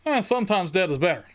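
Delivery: bored, throwaway line reading; bad acting. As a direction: toss the line off, phoning it in. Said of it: "John Lithgow just delivers it like".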